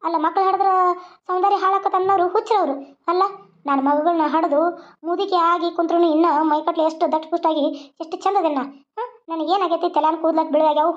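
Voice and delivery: lightly voiced old grandmother, scolding fondly; a hint of an old village granny advising.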